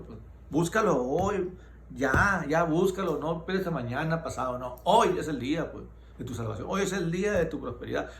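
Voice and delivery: earnest, pressing preacher's appeal; urgent exhortation. Real, not acted. Preacher urging a listener to seek God today, urgent exhortation. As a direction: preach with mounting insistence, pitch often lifted.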